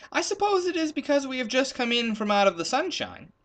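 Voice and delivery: leopard musing. Acted. Leopard explains to Ethiopian.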